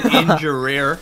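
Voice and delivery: Ingerir with a mock Latino accent; imitating Spanish accent. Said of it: "then you switched Latino".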